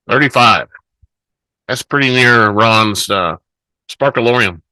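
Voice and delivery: talking with cheeks stuffed full; words through a mouthful of food. Real, not acted. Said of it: "Didn't mean to have a mouthful of food".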